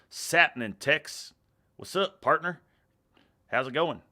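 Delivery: loud, drawn-out hearty hello; hearty greeting. Acted. Streamer reading a viewer's greeting to chat, hearty.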